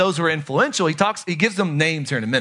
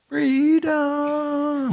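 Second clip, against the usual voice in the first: mock battle cry; 9 semitones higher than usual. Shouted movie-style cry.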